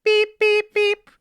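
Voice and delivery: high, loud, even electronic beeps; imitated phone beeps. Imitating the phone as she hangs up, beeping. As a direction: mimic a hang-up tone, high and monotone. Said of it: "All of a sudden, we hear".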